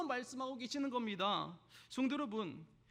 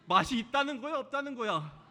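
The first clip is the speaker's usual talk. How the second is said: a mock-exasperated, louder demand; exasperated wife; 2 semitones higher, 5 dB louder than usual. Wife scolding her gruff husband over dinner, mock exasperated. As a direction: press him for a straight answer. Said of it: "아내가 하는 말이".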